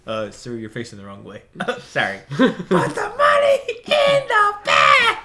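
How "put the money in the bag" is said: shouted high robber voice; bank robber. Pretend. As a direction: yell it like a robber holding up a bank. Mock bank robbery skit.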